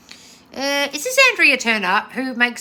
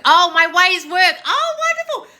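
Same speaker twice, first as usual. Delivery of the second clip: high, loud, slow oh, breaking into a laugh; delighted realisation; 10 semitones higher, 9 dB louder, slower than usual. Real, not acted. Host realising a viewer praised her methods, delighted laughing. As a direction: beam as the compliment sinks in.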